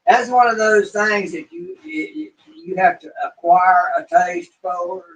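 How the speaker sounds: talking without upper teeth; toothless. Real, not acted. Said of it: "I'm talking without my upper teeth".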